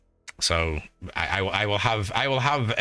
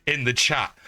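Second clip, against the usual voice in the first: slow, drawn-out disbelief; stunned at who showed up; astonished; 7 semitones higher, much slower than usual. Real, not acted. Spots friend in chat.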